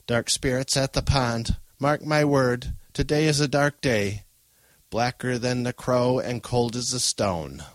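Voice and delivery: lightly voiced grandmother prophecy; ominous old woman. Trembling grandmother warning of dark spirits, ominous. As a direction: intone a dire warning.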